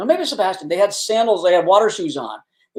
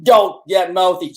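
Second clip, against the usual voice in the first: slow, deliberate retold warning; intimidating cop; slower than usual. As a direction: draw it out like a cop putting someone in their place. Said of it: "he really pulled it out".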